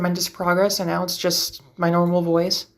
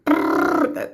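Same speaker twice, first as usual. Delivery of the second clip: quick high swoop on that; warm-up pitch slide; 10 semitones higher than usual. Shown as a demonstration. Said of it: "to get your voice warmed up".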